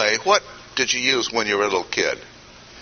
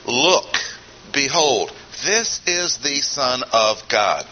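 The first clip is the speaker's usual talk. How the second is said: emphatic proclamation; slower than usual. Retold or imitated. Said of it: "very emphatically proclaimed a fact".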